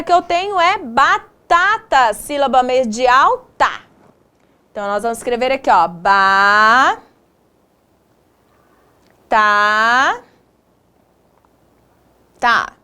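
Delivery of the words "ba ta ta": each syllable drawn out, long pauses between; syllable-by-syllable dictation. Shown as a demonstration. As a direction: dictate slowly, one held syllable at a time. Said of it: "separamos essas palavras em sílabas".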